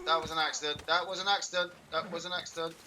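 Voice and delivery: high, insistent repeated plea; urgent protest. Real, not acted. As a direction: plead your innocence after a mishap. Protesting after accidentally hitting someone.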